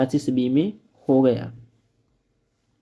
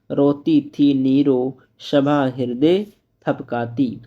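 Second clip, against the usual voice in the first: slow, measured reading of verse; slow classroom poetry recital; poem recitation. Acted. Teacher recites poem lines.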